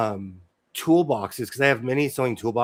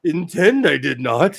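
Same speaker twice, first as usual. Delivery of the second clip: Yoda voice; 5 dB louder than usual. Pretend. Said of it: "it's like Yoda-esque".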